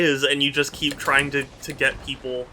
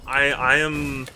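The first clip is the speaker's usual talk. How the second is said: exasperated. Real, not acted. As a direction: stretch the words out, fed up. Fed up with Groovy's teasing.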